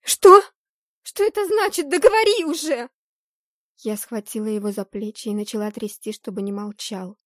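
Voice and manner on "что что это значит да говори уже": sharp, very high disbelieving cry; shocked outcry. Acted. Heroine hears of coup, shocked high cry. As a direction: gasp it out in shock, then demand.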